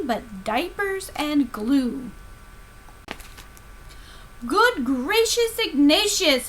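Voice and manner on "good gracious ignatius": delighted gasp, a bit higher; gushing mother amazed at her toddler; mother's exclamation. Acted. Mother praising her son, delighted and amazed. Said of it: "his mother exclaimed".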